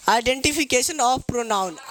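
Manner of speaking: very slow, each word apart; slow dictation. Shown as a demonstration. Teacher dictating the heading to pupils, very slowly. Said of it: "pupils ask क्या".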